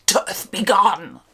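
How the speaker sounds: ordinary delivery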